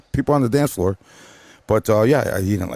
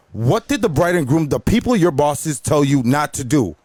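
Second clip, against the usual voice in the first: higher, deliberate retold scolding; 5 semitones higher than usual. Wedding guest confronts the DJ over requests, scolding. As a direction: lay down the rule like an indignant guest.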